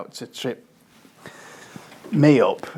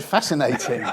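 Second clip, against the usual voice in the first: ironic quote. Shown as a demonstration. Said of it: "it almost had inverted commas".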